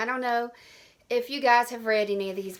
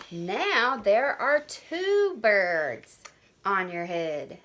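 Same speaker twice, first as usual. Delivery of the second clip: playing Piggy; slower than usual. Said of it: "I'm going to be Piggy".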